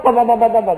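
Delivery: loud popping exhaust sounds; exhaust noise. Retold or imitated. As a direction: pop out each pam like a revving bike. Bunyi ekzos motor. (bunyi ekzos motor yang kuat)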